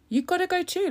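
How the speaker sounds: high taunt with stress on gotta; high sing-song You gotta go too; high mock scold. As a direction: repeat the jibe in a high squeak. Repeats the taunt.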